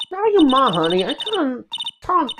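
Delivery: put-on Southern twang; Southern accent. Southern woman addressing honey, put-on Southern accent. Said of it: "It's kinda hard talking to Southern accent".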